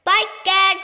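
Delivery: loud startled exclamation; Duke crying out. A narrator's reading. Old Duke discovering the burglar, crying out loud. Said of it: "cried the Duke".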